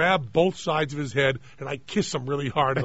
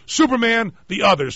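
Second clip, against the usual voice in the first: a touch higher and louder, mock heroic delivery of the line; hammed-up line reading; 6 semitones higher, 5 dB louder than usual. Shown as a demonstration. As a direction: show how the line was said, lightly overdone. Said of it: "which I delivered exactly like".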